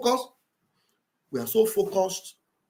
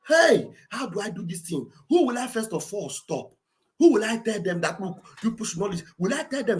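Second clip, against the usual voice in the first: frustrated inner monologue; 3 semitones higher than usual. Retold or imitated. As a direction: voice his exasperation, then explode on the last question. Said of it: "Mazi Nnamdi Kanu saw this thing".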